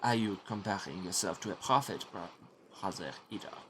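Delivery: lightly voiced French monk; French accent. Brother Guy needling Brother Enoch, French accent. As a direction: question him in a French accent. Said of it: "and he is French".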